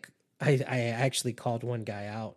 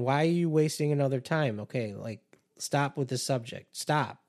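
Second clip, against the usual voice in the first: mock exasperated rant; 3 semitones higher than usual. Escalating dismissive rant.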